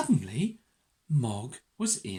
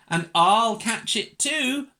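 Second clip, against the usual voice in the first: high, loud, eager little-dog voice; 5 semitones higher, 7 dB louder than usual. A narrator's reading. Little dog joins the chase, high eager boast. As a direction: pipe up keenly, higher. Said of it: "thought a little dog".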